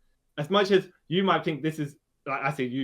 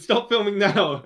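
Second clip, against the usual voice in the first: louder, higher, slow imitated command; mock angry order; 6 semitones higher, 7 dB louder, slower than usual. Superman tells the one filming him to stop, mock indignant shout. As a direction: call it out slowly like an exasperated demand.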